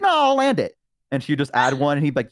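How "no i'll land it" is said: cocky goblin. Retold or imitated. Goblin refusing the parachute.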